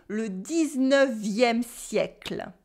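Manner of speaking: le dix-neuvième siècle slowly as a model; model pronunciation. Shown as a demonstration. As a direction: say it for the class. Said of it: "repeat after me".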